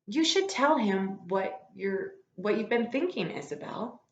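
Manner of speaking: dad urging mom to tell him; lightly voiced dad. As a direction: draw the words out as the dad. Teacher voicing dad in story.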